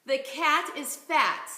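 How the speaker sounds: "The cat is fat" said slowly and clearly; slow model phrase. Shown as a demonstration. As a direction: set it out slowly to copy. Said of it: "Let's try this one".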